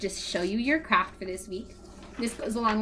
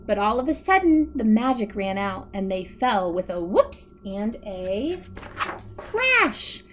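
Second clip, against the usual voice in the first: put-on lively read-aloud for children; animated story narration with bouncy rhythm; storybook reading; 3 dB louder than usual. A narrator's reading. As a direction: tell it to a room of little kids. Reads picture book aloud to kids.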